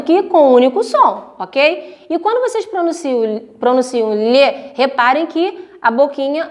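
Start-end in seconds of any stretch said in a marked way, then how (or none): 4.1-4.7 LHE drawn out, mouth opening; open-mouthed syllable. Shown as a demonstration. Teacher showing how the mouth opens, exaggerated syllable. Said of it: "a boca de vocês abrem".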